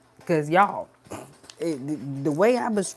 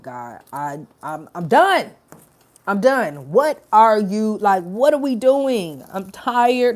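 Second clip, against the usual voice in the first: louder, retelling a worn-out plea to God; exasperated crying out, raised voice; fed up outburst; 3 semitones higher, 6 dB louder than usual. Retold or imitated. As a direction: let the frustration spill out loud. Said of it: "And I was like".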